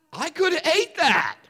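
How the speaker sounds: mock a dude who'd gladly eat it, laughing. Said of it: "if you're a dude, you're like".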